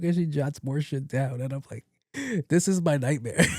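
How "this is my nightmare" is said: high, helpless giggly dismay; laughing dismay. Acted. Patient caught out by doctor, laughing dismay. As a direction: barely hold back the laugh.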